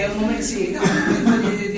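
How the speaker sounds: laughs through the answer; chuckling while defending himself; laughing. Real, not acted. Author laughing as he answers the host's teasing.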